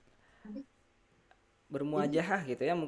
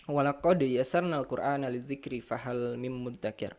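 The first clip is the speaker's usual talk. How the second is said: formal Arabic recitation. Acted. Opening Arabic recitation of lesson.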